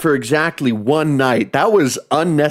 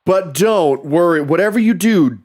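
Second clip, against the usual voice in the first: emphatic, raised pitch on each don't; mock reassurance; 4 semitones higher than usual. Mock parent telling child to ignore basement noises, insistent. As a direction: insist in broken-up, punched phrases.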